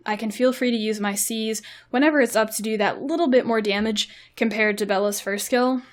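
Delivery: winded, talking between breaths. Real, not acted. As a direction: speak short of breath. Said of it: "I'm out of breath".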